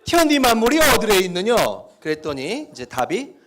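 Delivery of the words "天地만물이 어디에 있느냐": loud North Korean dialect demo; hammed-up northern dialect reading. Shown as a demonstration. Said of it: "또 느낌이 살죠?".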